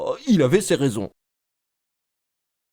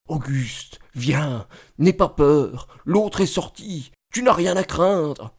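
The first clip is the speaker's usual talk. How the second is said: wife talking to herself; slower than usual. Retold or imitated. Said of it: "elle parlait toute seule".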